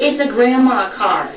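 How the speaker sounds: high, slow mocking jab; teasing the husband, slow and high; mocking tease. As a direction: drag it out to rub it in. Teasing Randy about the car.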